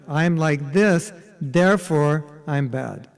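self-condemning. Shown as a demonstration. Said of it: "As opposed to".

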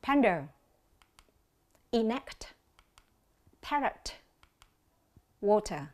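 isolated words with long pauses between; careful pronunciation demo. Shown as a demonstration. Teacher has students observe the vowel sounds, careful and separated. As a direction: model Panda, enact, parrot, water distinctly. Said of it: "quan sát lại cách đọc nhé".

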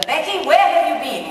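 acted stage question. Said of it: "my first line was".

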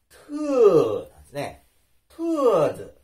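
トゥーズ with a strong puff after the T; トゥーズ with aspirated T, falling tone. Shown as a demonstration. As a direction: leave a breathy gap before the vowel of トゥーズ. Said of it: "間があったらどうなるかというと".

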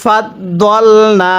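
দল with a short vowel, not দাল, said slowly; correct recitation. Shown as a demonstration. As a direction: keep দল short, never stretch it to দাল. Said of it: "কিভাবে পড়তে হবে?". (দল ছোট করে, দাল নয়)

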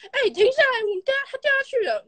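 high, urgent retold call to stop the bike; cousin calling out. Cousin calling to the family that she fell, high and urgent. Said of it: "她就说".

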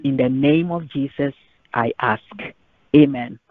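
earnest spoken prayer to the Lord; measured pulpit prayer. Acted. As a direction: pray it, steady and sincere. Pastor leads closing prayer.

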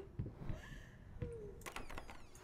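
long soft sigh; drawn-out hushed exhale. Real, not acted. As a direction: let out a quiet, bracing sigh. Bracing to go on in game.

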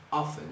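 "often" said without the T; "often" with F running straight into the final syllable, no T; silent T. Shown as a demonstration. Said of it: "Não se pronuncia o T".

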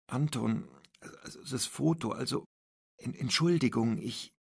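halting, trailing into a near-silent ich; hesitant stammer. Acted. Schoolgirl stammering to the principal, halting and nervous. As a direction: stumble nervously over the apology.

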